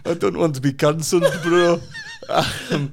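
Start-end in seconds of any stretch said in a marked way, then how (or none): 0.0-1.8 light Bradford Asian accent, mock worried; a hint of Bradford Asian accent. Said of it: "Talk like this throughout".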